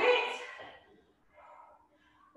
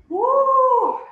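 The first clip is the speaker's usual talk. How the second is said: excited cheer; 6 semitones higher, 10 dB louder than usual. Real, not acted. Instructor cheers end of set.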